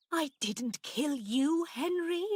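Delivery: high, slow, fearful protest; alarmed and pleading; frightened denial. A narrator's reading. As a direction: plead innocence to a ghost, pitch climbing. Terrified aunt denies to ghost.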